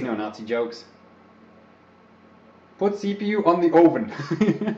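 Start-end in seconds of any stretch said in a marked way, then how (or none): 2.8-4.8 put-on Slavic-sounding Russian accent. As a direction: playfully fake a Russian accent. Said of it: "I can do a Russian accent".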